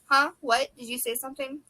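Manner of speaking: high, startled questions; jumpy, high surprise. Acted. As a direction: caught off guard mid-thought. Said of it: "her head jerked up at the sound".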